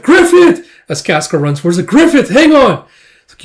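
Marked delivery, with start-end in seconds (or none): 0.0-0.7 very high, loud name call; acted scream running to a friend; alarmed shout. Casca runs to Griffith. 1.9-2.9 high, loud urging; acted cry to an injured friend; frantic shout. Casca runs to Griffith.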